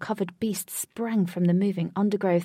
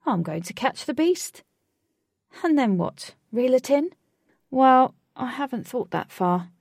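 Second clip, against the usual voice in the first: put-on higher boy voice; 6 semitones higher, 6 dB louder than usual. Alec character voice.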